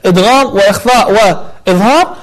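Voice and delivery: normal talking voice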